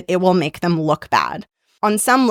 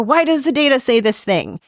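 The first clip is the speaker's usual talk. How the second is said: lightly imitated stakeholder, pitched higher; challenging stakeholder; 5 semitones higher than usual. Stakeholder questioning the presenter about the data, lightly voiced challenge. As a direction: put a higher, questioning edge on it. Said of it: "like a stakeholder says".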